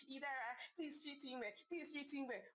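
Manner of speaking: a mocking singsong echo of her sister's advice. Wife mimicking her sister's advice to her, mocking. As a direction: lightly parrot the sister's pleading, mock-sweet. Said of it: "All those advice you're saying".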